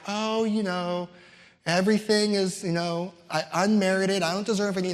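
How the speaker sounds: a lightly put-on humble whine; mock fake humility. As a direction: mimic someone being falsely modest. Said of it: "fake humility attitude".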